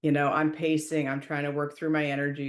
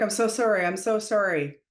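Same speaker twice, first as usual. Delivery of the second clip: frantic apology; 5 semitones higher, 3 dB louder, faster than usual. Retold or imitated. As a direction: imitate a flustered apology, pitched up. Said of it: "he's apologizing all over the place".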